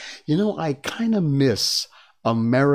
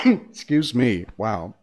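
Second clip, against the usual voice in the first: swallowed wrong way; slower than usual. Real, not acted. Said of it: "That coffee went down the wrong pipe".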